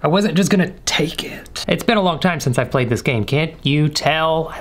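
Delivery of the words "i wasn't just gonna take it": whispering. Real, not acted. Sneaking past grandma, whispering.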